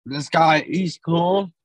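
coughing through a mouthful of chip; choking on a chip. Real, not acted. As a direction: say it while choking on food. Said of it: "Sorry, I'm, like, choking on chip".

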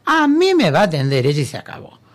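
retold ultimatum, opening on a high no; emphatic, high-starting refusal; firm insistence. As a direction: refuse and close the argument.

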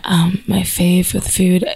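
low, slow sultry purr; sexy voice. Pretend. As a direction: play up the sexy husky voice. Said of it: "say it in your sexy voice".

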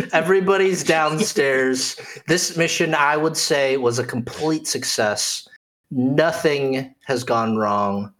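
measured recap, slowing toward the end; lightly dry storyteller summing up; game master narration. Acted. Game master to players after the lobby escape, measured narration.

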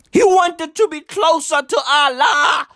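high wailing lament; hammed-up tearful cry; overdone sobbing plea; mock crying shout. Mock-mourning Epstein.

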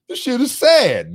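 a touch of mock weepiness; mock sad whine. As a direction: play up your own sadness, lightly. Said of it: "I was like".

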